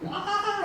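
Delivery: short high mock shriek of fright; a quick, thin imitated scream. Fishermen seeing a ghost give a high, small mock scream. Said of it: "empezaron a gritar".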